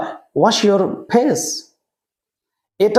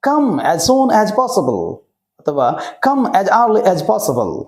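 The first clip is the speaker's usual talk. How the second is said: slow teaching model; much slower than usual. Shown as a demonstration. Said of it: "slow model sentence".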